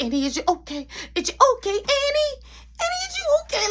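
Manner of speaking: rising, strained call of a worried coworker; worried high call. Retold or imitated. Coworker calling into the dark store, worried and high. Miss Shirley calls out, worried.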